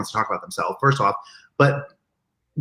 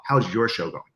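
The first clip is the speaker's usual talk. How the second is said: turning the question back; 2 semitones lower, 4 dB quieter than usual. Retold or imitated. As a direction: toss it back at them gently. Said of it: "He's gonna like".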